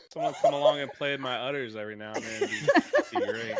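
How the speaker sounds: laughing joke. Acted. Joking laughing cow fantasy.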